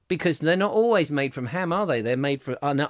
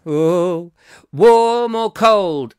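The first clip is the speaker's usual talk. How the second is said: mock disdain; 3 semitones higher, 7 dB louder, much slower than usual. Host mocks a listener's escargot comment, slow and scornful. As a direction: drag it out in lofty scorn.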